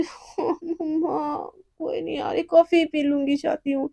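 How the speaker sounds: soft, drained hungry reply; weak resigned murmur. Acted. Hungry assistant giving up weakly, soft. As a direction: barely get it out.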